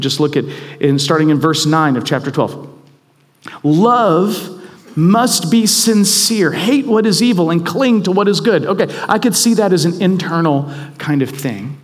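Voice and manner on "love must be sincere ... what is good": scripture reading. Acted.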